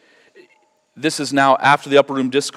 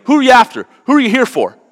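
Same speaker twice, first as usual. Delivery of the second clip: bold Jesus voice; 10 semitones higher, 6 dB louder, faster than usual. Retold or imitated. Jesus confronting the arresting soldiers.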